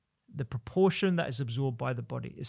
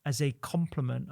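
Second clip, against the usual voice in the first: "complement" set apart and clearly stressed. Real, not acted. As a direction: underline the word "complement" with your voice. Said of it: "underline the word complement".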